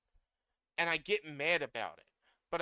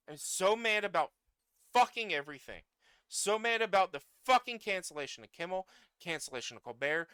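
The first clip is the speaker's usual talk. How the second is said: real anger; 4 dB louder than usual. Real, not acted.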